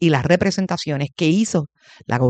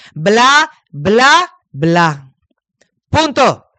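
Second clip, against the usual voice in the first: loud, high, scornful bla bla bla; dismissive bla bla bla; 4 semitones higher, 4 dB louder, much slower than usual. Real, not acted. Host dismisses the education secretary's promises, scornful bla bla. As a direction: brush off the promises with contempt. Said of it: "lo que dirían donde yo me crié".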